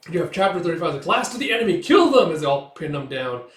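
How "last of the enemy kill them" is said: high, loud attack cry; shouted battle order. Retold or imitated. Attackers pin down last enemies, shouted order. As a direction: urge men to finish the fight.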